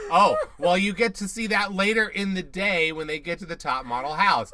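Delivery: imitating Liz's accent. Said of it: "what is her accent?".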